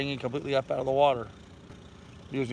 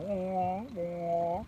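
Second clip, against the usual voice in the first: chicken squawk; 5 semitones higher, 5 dB quieter than usual. Retold or imitated. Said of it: "That's what chickens do. They go".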